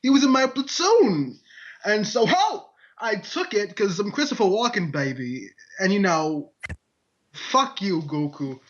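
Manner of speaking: lightly voiced Walken, odd stretched pauses; a hint of Walken's halting drawl; loosely done Walken cadence; bad Christopher Walken impression. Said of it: "I could do a really bad walk-in".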